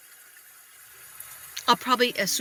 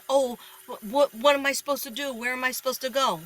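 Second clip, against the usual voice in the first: higher, quick helpless whine; wimpy whine; 4 semitones higher than usual. Retold or imitated. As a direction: sound lost and helpless. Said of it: "I sound like a wimp".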